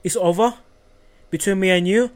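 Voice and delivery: understated imitation of a man ending things; Matt impression. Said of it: "So this is Matt. He goes".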